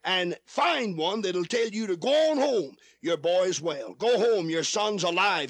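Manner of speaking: normal talking voice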